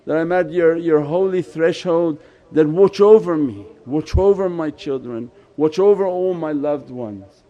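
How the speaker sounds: a heartfelt supplication, dropping onto each plea for forgiveness; pleading prayer. Acted. Worshipper asking at the holy threshold at night, pleading. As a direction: plead earnestly, drawing out the appeals. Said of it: "At night sit and ask".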